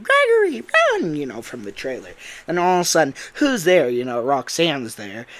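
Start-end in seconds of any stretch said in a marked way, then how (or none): 0.0-1.1 very high, loud shouted warning; urgent warning. Retold or imitated. Voice on the trailer warning Gregory to flee, high shout. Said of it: "it'd be like". 3.3-3.9 louder, higher sharp challenge; startled call. Retold or imitated. Roxanne hearing someone in her salon, a loud startled call.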